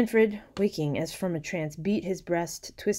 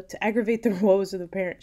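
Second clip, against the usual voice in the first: raised, loud, hurried reproach; reproachful yelling; 4 semitones higher, 8 dB louder, faster than usual. A narrator's reading. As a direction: yell it in reproach, higher and faster. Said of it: "She's yelling at".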